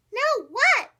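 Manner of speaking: high loud eager question. Acted. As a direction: ask eagerly. Curious frogs ask.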